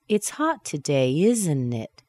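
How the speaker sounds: slow, ISN'T IT goes down; falling tag question. Shown as a demonstration. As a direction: state it, dropping the tune on ISN'T IT. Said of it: "making that statement kind".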